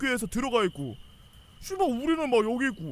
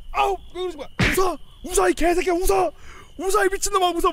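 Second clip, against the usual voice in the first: higher, louder screamed orders to laugh; furious yelling; 8 semitones higher, 6 dB louder than usual. Retold or imitated. Platoon leader kicking the soldier, screaming at him to laugh.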